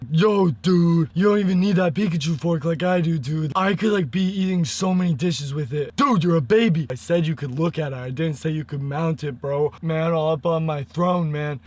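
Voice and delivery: strained shouting bro voice; loud harsh voice. Acted. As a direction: yell it hoarse and rough. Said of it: "harder and harder to scream".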